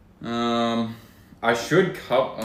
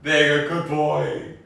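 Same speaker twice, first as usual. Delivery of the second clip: put-on baby talk. Feeding friend like a baby.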